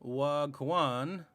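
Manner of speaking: "wagwan" said slowly as wok-wan; careful "wagwan"; slang word said out. Shown as a demonstration. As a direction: draw out "wagwan" with a rising end. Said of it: "the phrase "wagwan" means".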